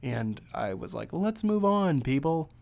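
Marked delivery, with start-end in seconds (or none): 1.1-2.5 impatient moviegoer yelling at the screen; retold yell at the screen. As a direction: hurry the film along from your seat. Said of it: "I yelled at the screen".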